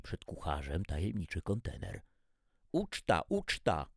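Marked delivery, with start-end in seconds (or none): 2.7-3.9 repeated cries. A narrator's reading. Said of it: "powtarzały translatory".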